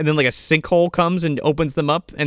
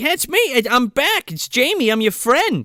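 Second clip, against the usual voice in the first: high-pitched mock yell. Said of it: "He's yelling down to him".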